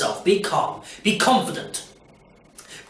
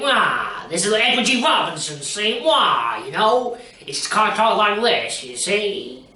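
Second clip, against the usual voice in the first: gangster impression; 3 semitones higher, slower than usual. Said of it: "they talk like this".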